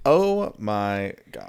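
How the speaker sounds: stunned. Real, not acted. Reacting to the abuse story.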